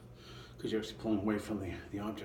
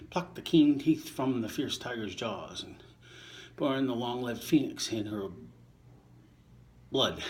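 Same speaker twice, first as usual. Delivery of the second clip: measured verse recital, a touch louder than his chat; poem reading; 3 dB louder than usual. Acted. Reader reciting Shakespeare to listeners, measured poem voice. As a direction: give each line its verse shape. Reading sonnet nineteen aloud.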